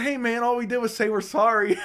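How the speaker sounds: retold plea broken by laughter; a touch of mock pleading while laughing. Real, not acted. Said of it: "I was like".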